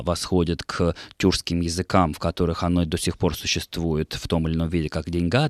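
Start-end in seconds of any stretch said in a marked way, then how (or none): 5.1-5.5 "деньга" with the stress on its final а; stress on the last syllable. Shown as a demonstration. Presenter lists Turkic forms, end-stressed деньГА. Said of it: "на конце этого слова".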